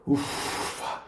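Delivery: soft, voiceless exhale; mock relieved puff. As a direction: puff out as if arriving after an effort. Pretends arrival after crossing over. (sopro de alívio fingido)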